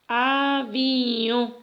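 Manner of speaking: avión with the final o nasalized; nasal o. Shown as a demonstration. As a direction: let the o of avión ring through the nose. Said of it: "O que tiene la marca de la nasalidad".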